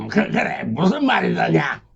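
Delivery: stammering caught off guard; hesitant surprise. Acted. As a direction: stop short, startled. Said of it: "멈칫하며 말했다".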